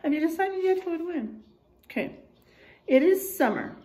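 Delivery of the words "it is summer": put-on lively storybook reading for kids; reading to children. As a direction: read the bear facts like a story to the class. Reads picture book to class.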